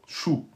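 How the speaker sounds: Chou said with a light thin vowel, not the open sound of chaud; soft short Chou; teacher modelling the thin letter. Shown as a demonstration. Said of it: "chou et pas chaud".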